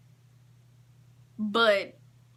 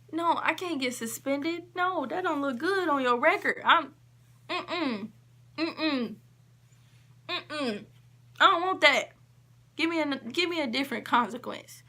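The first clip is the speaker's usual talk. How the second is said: higher, pleading, half-sobbed no; retold crying plea; 5 semitones higher than usual. Student begging the teacher, tearful mock sob. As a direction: beg not to be suspended, tearful. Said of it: "I started crying".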